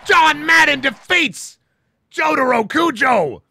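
high, slow ring-announcer bellow; announcer shout. Acted. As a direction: call the winner to the crowd. Announcing winner.

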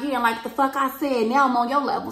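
loud, heated comeback; forceful retold challenge; retold defiance. Retold argument atop a desk.

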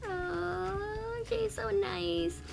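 high, soft, drawn-out and moved; slow, high little voice, near tears; touched, tearful. Real, not acted. Moved by the friend's kindness, tearful.

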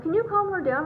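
loud, high-pitched mock plea; imitated exasperation. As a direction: act out a flustered staffer asking for help. Flustered staff ask handler for help.

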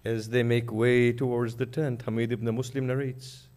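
soft, low-voiced storytelling; hushed narration. Preacher quietly setting up Zainab's entrance, hushed. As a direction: drop to a near-hush.

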